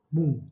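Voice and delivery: "Mundo" with light weight on MUN; brief teaching repeat of MUN-do, "Mundo"; stressed penultimate syllable. Shown as a demonstration. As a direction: lean gently on the first syllable of "Mundo". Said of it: "é a mesma coisa".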